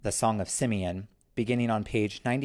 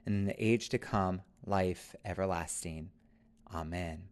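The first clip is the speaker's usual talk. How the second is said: prayer. Acted. Prayer said aloud.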